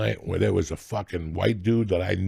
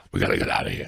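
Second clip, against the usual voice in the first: hushed, urgent whisper; paranoid whisper; much faster than usual. Retold or imitated. Retelling his cocaine paranoia in hotel rooms, urgent whisper. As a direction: whisper it like someone's listening. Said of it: "and go".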